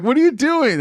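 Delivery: high, loud mock outrage; imitated yelling. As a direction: yell it like an exasperated teammate. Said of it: "everyone's yelling".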